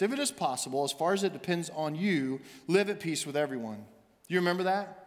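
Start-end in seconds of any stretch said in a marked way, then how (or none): 0.0-3.8 scripture reading. Shown as a demonstration. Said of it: "it says this".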